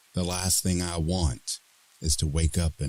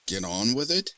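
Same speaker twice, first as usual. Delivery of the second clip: incredulous echo; 8 semitones higher than usual. Acted. Echoed in disbelief.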